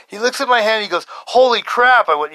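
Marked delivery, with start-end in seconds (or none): 1.1-2.1 drawn-out, high, loud amazement; retold astonishment. Friend seeing the swollen hand, astonished. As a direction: stretch it out, higher and louder.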